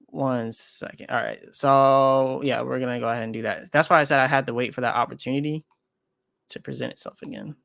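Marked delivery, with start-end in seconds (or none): none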